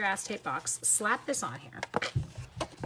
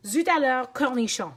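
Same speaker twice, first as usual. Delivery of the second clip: mimicking Martine; 3 semitones higher, 6 dB louder than usual. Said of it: "That is her favorite thing to say".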